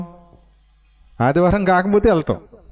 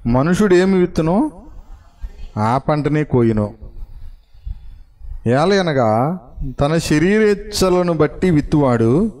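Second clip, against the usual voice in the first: slow, measured Bible reading voice; scripture reading; slower than usual. Acted. Pastor reading Galatians aloud to the congregation, slow and solemn. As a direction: read each verse slowly and solemnly.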